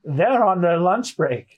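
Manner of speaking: slow, bleating goat man; goat-like servant, drawn out. Acted. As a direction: drag it out like a goat. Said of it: "I'm gonna read him as a goat".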